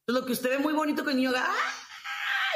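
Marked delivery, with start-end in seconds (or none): 1.5-2.5 sudden very high shriek, half laughing; child's tantrum shriek. Retold or imitated. Teacher mimicking a child's tantrum for parents, laughing high shriek. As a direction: squeal like a toddler in a tantrum, laughing through it. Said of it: "y se ponga así".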